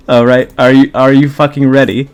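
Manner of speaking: loud, hyped question; excited. Real, not acted. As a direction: pump them up. Hyping up reading.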